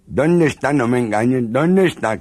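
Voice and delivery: high, loud demanding yell; angry jealous demand. Acted. Jealous husband yelling at his wife. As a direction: demand the hidden lover.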